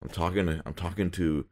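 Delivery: put-on lightly done French chef accent, slow. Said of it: "an even more outrageous French accent".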